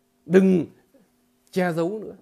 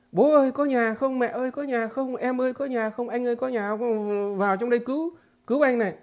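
raised, higher calls to everyone in the house; calling for help; 5 semitones higher than usual. Retold or imitated. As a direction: yell out for rescue, retold not real. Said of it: "Phải toáng lên". (giả giọng gọi toáng lên cầu cứu)

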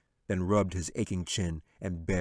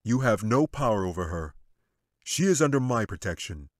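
firm and louder; insisting; 5 dB louder than usual. Acted. Angel insisting to the wizard, louder and firm. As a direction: lean on it, no doubt allowed. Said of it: "he insisted".

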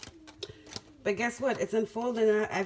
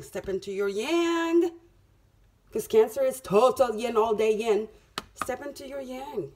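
rousing push; 3 semitones higher, 6 dB louder than usual. Real, not acted. Urging Cancer to step up.

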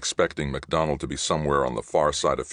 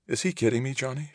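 incredulous; 11 semitones higher, faster than usual. Acted. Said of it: "she asked".

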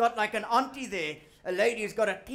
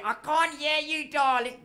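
lightly voiced granny, a bit higher; a hint of a confused old granny; granny on the phone; 4 semitones higher than usual. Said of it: "phone your granny".

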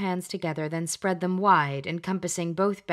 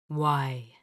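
low, slow otherworldly voice; a stern spirit in the mirror; deep male voice; 4 semitones lower than usual. Acted. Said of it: "a deep male voice asked".

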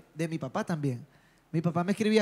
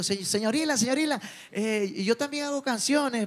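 put-on nervous child voice; 4 semitones higher than usual. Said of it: "Le digo".

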